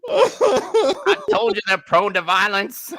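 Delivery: put-on racist old man. Mocking racist voice.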